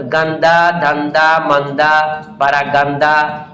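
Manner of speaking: गंदा, धंधा, मंदा each ending in open aa; final h as alif. Shown as a demonstration. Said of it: "आवाज अलिफ की तरह होती है".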